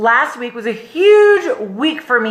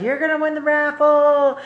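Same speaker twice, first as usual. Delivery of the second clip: imitated singsong prediction; 5 semitones higher than usual. Husband predicting her raffle win, singsong. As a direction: imitate a confident tease in singsong.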